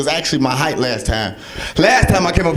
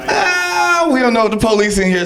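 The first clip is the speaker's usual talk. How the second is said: hyped aside; 10 semitones higher than usual. Real, not acted. Host hushing crowd about weed.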